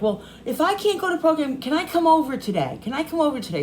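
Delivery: high, pleading imitation of the daughter; lightly voiced daughter asking to come over. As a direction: ask like a begging teen. Daughter begging on phone.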